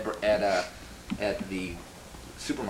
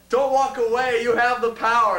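high, loud protest cry; joining the rally yell; rallying shout; 11 semitones higher, 4 dB louder than usual. Retold or imitated. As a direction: shout it to rouse the crowd.

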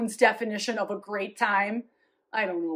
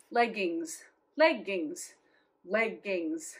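much softer, lower, drawn-out echoes of Leggings; hushed echo; 6 semitones lower, 10 dB quieter, slower than usual. Acted. Legging seller echoing her magic word, hushed and dreamy. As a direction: let Leggings fade away like a spell.

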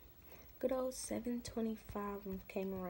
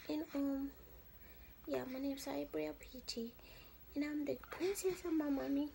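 lightly voiced baby, higher; 4 semitones higher than usual. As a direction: speak for the baby playfully.

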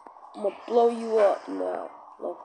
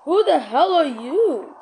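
slow high yell; 6 semitones higher, 9 dB louder than usual. Acted. Repeat take.

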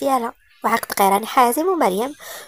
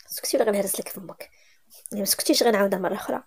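threat; 2 semitones lower, 5 dB quieter than usual. A narrator's reading. Husband threatens his bride.

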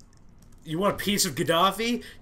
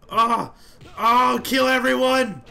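rampaging shout; 6 semitones higher, 6 dB louder, slower than usual. Acted. Character rampaging.

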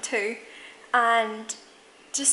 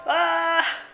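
high, held "aah"; open-mouthed "ah"; 5 semitones higher than usual. Shown as a demonstration. Vlogger showing how her face feels, open-mouthed "ah". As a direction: let out a long, raised "ah".

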